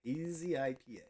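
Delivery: soft whispered aside; whispering. Real, not acted. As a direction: whisper it under your breath. Whispered beer name.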